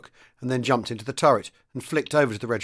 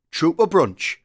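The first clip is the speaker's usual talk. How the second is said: loud, higher grumbled correction; resentful mutter; 6 semitones higher, 7 dB louder, slower than usual. A narrator's reading. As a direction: correct him resentfully, voice pushed up. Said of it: "Geordie muttered".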